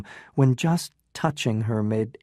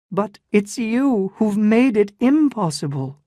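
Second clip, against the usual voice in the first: higher and louder, cried out in reproach; anguished cry, higher and louder; 9 semitones higher, 4 dB louder than usual. Acted. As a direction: throw the blame back at him in an outburst. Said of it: "she cried".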